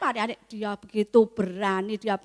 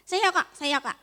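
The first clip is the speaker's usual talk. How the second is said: put-on high, eager child volunteering; raised child's voice calling out; 4 semitones higher than usual. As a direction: pipe up like a keen kid.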